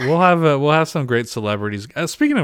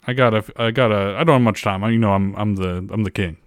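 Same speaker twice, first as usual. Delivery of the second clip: Impression of a singer. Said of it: "So this is a singer".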